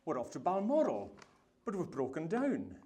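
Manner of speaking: lightly imitated Queen accent; a touch of the Queen's accent, explaining the holiday. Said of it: "That's my Queen accent".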